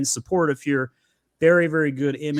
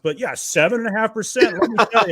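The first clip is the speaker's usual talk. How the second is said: mocking the government; 3 semitones higher, 4 dB louder than usual. Host mocking the government's inflation numbers, sarcastic. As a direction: parody the official line with scorn. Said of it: "Government's like".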